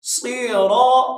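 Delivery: "सिरा" with thick emphatic s and r; heavy letters. Shown as a demonstration. Teacher showing heavy swad and ra, "सिरा" thickened. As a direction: make the s and r of "सिरा" full-mouthed. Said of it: "स्वाद मोटा है और रा भी मोटा".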